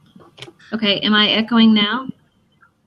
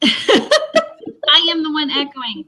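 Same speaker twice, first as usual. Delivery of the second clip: laughing; 3 semitones higher, much slower than usual. Real, not acted. Laughs at her own echo.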